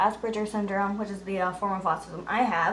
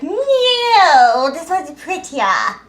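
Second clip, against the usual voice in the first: stubborn retort; 6 semitones higher, 9 dB louder, much slower than usual. Retold or imitated. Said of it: "And I was like".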